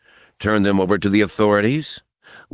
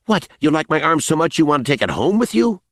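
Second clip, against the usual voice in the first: cocky sneer; 9 semitones higher, faster than usual. Acted. Smiley mocking Mace's grip.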